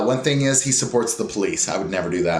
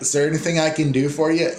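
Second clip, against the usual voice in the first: sincere offer; 4 semitones higher, faster than usual. Retold or imitated. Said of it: "And they mean".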